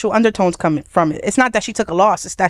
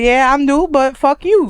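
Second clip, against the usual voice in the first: cocky rookie; 4 semitones higher, slower than usual. Retold or imitated. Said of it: "the energy of like".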